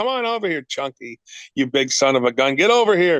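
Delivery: mocking, teasing patter. Retelling watching a booth at twelve: imitating own past teasing. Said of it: "I started making fun of people".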